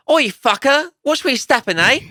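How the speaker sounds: mild rough London accent; Londonish accent. Shown as a demonstration. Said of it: "more Londonish".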